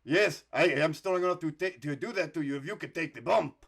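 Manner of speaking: put-on a light, half-hearted French-Canadian accent, pitched a little up; lightly put-on French-Canadian accent for Joe LeDuc. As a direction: play the strongman in a mild French-Canadian accent. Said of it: "I'm gonna try to do the accent".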